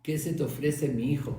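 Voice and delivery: a kind rabbi's fond greeting to a visitor; affectionate. Retold or imitated. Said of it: "con todo el cariño".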